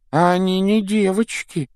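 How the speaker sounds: put-on high wispy ghost girl. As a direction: play the moping ghost girl. Myrtle the ghost speaks.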